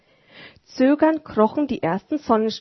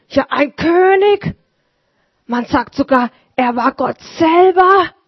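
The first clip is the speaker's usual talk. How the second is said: put-on a touch higher, earnest old shoemaker; old man telling his wonder, a bit raised; gently voiced old cobbler; lightly voiced Vater Martin; 6 semitones higher, 8 dB louder than usual.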